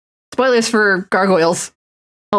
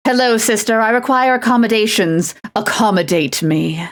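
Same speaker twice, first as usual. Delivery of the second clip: haughty aristocrat. Pretend. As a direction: demand it like spoiled nobility. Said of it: "now that I've said that line out loud".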